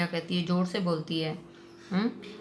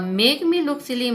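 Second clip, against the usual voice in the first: slow, raised, louder bitter complaint; hurt, resentful drawl; 6 semitones higher, 5 dB louder, much slower than usual. Retold or imitated.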